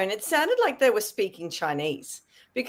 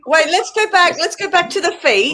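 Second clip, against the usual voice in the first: excited insistence; 5 semitones higher, 8 dB louder than usual. Real, not acted. Excited request to rewind.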